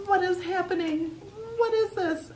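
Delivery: high, loud alarmed questions; a girl scared of her itchy rash; panicked girl. Acted. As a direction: freak out at the sudden rash.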